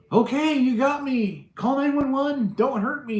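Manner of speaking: mock-scared burglar giving up; pleading intruder. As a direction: play a caught burglar begging. Voicing a caught intruder.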